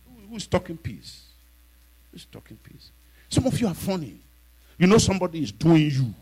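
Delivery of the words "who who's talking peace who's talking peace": mocking question. Real, not acted. Mocking the congregation.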